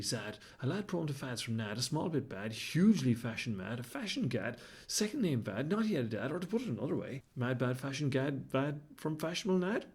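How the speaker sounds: slow, deliberate rhythmic tongue twister. Acted. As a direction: chant the twister word by word.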